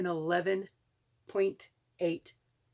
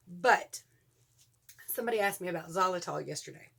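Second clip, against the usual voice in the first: whisper. Real, not acted. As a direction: drop to a whisper, quick. Whispered aside.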